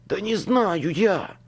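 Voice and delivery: lightly hissed, drawn-out annoyance; man's hiss, only hinted at; hissed retort. A narrator's reading. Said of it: "шипел мужской голос".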